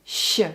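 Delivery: "Sh" alone as the tricky Russian sound; isolated Russian sh. Shown as a demonstration. Coach showing viewers the tricky sound, isolated Russian sh. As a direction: give a firm, isolated Russian "Sh". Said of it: "this tricky sh sound".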